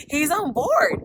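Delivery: yelling the news to her viewers; overjoyed shout. Real, not acted. Repeats the good news, overjoyed.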